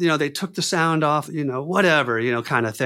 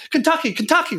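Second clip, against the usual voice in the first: much higher, pleading call of the safe word; panicked safe word; 13 semitones higher than usual. Retold or imitated. Actor crying out the safe word while being shaken, higher panicked pitch. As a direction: cry the safe word out high and urgent. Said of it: "like this".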